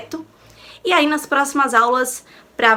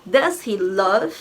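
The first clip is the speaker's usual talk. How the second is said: slow modelling; 3 semitones lower, much slower than usual. Shown as a demonstration. Teacher modelling an English question for students, slow and clear. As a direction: Do you love spoken very slowly and clearly. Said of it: "teacher modelling English question".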